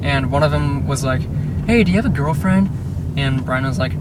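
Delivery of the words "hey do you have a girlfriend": lightly voiced taunting kid, pitched up; a hint of a teasing bully. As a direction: toss it out as a nosy schoolyard question. Voicing a teasing kid on bike.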